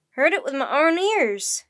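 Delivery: emphatic, loud exclamation; loud testimony. A narrator's reading. Crewman swears he heard the creature, exclaiming. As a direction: insist on it at full voice. Amazed sailor confirms the words.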